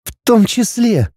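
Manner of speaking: wife mocking husband's excuse, wry; wry smirk. A narrator's reading. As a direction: echo his words with a smirk. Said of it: "усмехнулась супруга".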